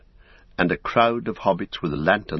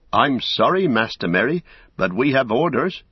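put-on higher, anxious old hobbit voice; nervous old gatekeeper refusing politely; old Hob apologising; 5 semitones higher, 3 dB louder than usual. Old gatekeeper refusing Merry, high and anxious. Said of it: "said old Hob".

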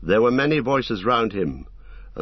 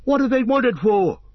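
orc voice; 13 semitones higher, 4 dB louder than usual. A narrator's reading. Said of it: "asked several voices".

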